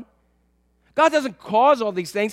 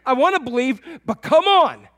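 frustrated believer; 3 semitones higher, 5 dB louder than usual. Pretend. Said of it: "we're gonna say".

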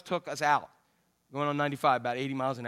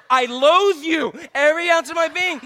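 mock loathing; 7 semitones higher, 6 dB louder than usual. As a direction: spit it out with exaggerated contempt. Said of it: "I'm like".

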